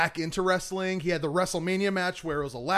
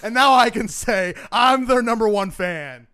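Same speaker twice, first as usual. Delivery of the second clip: raised voice, higher and much louder; proud declaration; 5 semitones higher, 9 dB louder than usual. Real, not acted. Superfan boasting to the hosts of long loyalty, loud proud declaration. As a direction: declare your loyalty at full voice.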